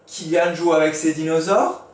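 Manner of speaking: rising question tune on dinosaures; question intonation. Shown as a demonstration. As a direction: ask it as a real question. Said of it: "Point d'interrogation". (intonation interrogative montante)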